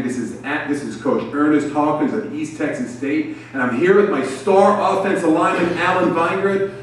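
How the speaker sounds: lightly voiced Texas coach announcing himself; Texas twang. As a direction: put on a Texas twang, building in pitch. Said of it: "he says in his Texas twang".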